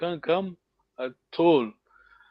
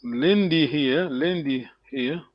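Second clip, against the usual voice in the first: slow, stressed Lendi here; stressed demo word; 4 semitones lower, slower than usual. Shown as a demonstration. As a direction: say Lendi slowly and clearly. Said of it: "Lendi before the verb".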